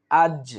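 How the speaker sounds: আজ with a bounced release on the final j; light qalqalah push. Shown as a demonstration. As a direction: kick lightly off the জ ending আজ. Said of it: "হালকা ধাক্কা দিয়ে".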